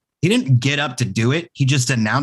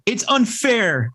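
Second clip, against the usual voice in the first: mock whine; 8 semitones higher, much slower than usual. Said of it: "they're the first to be like".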